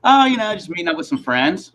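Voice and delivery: high, casual mock innocence; breezy retold answer. His own breezy answer to customs officer.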